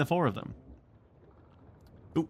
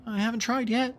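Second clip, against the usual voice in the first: put-on much higher little boy voice; whispered back; 13 semitones higher than usual. A narrator's reading. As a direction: play the small boy, wide-eyed. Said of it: "Michael whispered back".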